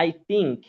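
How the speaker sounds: I think with the tongue tip on the teeth; correct soft th. Shown as a demonstration. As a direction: model the right th in I think. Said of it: "জিহ্বা দাঁতের আগার সাথে লাগে". (শুদ্ধ উচ্চারণে I think)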